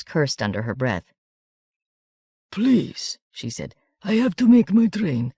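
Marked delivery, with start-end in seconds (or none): 2.5-5.3 pleading. Acted. Baroness pleads with crowd.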